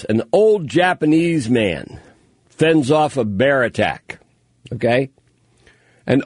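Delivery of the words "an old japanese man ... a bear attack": slow, savoring headline read; headline read aloud. Shown as a demonstration. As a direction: relish each word of the headline. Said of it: "I love the way they put this".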